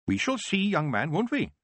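a glint in the voice; old witch teasing the boy, knowingly. Acted. Proust with a glint.

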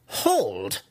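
commanding cry; sharp cried order. Acted. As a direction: cry out a halt like a spell. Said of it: "Malice cried at him".

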